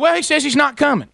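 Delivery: high-pitched annoyed report; unhappy wife. Retold or imitated. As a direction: imitate an exasperated wife passing on bad news. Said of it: "she's not happy".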